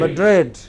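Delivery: Madrid, second syllable stressed and falling; final-syllable stress. Shown as a demonstration. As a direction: model Madrid with the weight on the end. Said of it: "which are pronounced differently".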